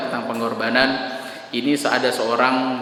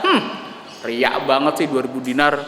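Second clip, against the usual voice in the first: sneering gossip; 2 semitones lower than usual. Retold or imitated.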